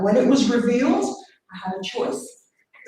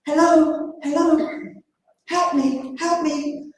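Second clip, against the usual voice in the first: small, higher pleading voice; a little lady calling for help, pitched up; 5 semitones higher, slower than usual. Retold or imitated. To passers-by on the beach, a small higher cry for help. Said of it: "I heard this little voice".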